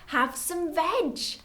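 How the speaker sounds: high, slow, drawn-out hoot; hooted invitation. A narrator's reading. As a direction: hoot it like a friendly duckbill. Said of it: "And they hooted".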